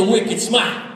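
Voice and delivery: mock Boston accent. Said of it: "real thick Boston accent".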